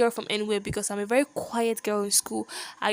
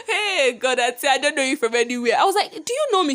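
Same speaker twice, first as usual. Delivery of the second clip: high, loud and outraged at a stranger; shrill-free but pitched up, loud disbelief; indignant confrontation; 4 semitones higher, 4 dB louder than usual. Retold or imitated. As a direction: demand to know who she thinks she is. Confronting the bully at the gate.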